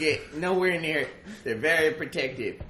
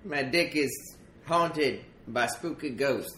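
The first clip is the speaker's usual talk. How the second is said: coal miner character voice; 2 semitones higher, 4 dB louder than usual. Acted.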